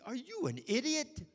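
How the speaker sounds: high, loud shouted warning; shouting alarm at a gasoline fire; furious shout. Retold or imitated. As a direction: yell at the fool with the match. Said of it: "I'd say".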